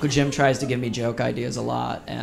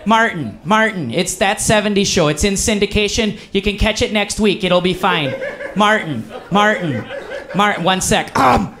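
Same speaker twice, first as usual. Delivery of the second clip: Uncle Jim; 5 semitones higher than usual. Retold or imitated. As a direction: call out Martin over and over like a pushy Midwestern uncle. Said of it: "he's just like".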